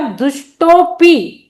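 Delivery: दुष्टोपी run together as dush-TO-pee; elided pronunciation. Shown as a demonstration. Teacher showing students the silent avagraha, elided pronunciation. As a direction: say दुष्टोपी joined, no "a" before pee. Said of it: "दुष्टोपी पढ़ेंगे".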